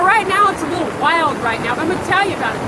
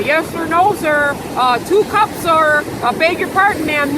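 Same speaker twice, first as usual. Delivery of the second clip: drawn-out mock obedience; mock servile. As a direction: parody someone bowing and scraping. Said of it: "Be a good Negro".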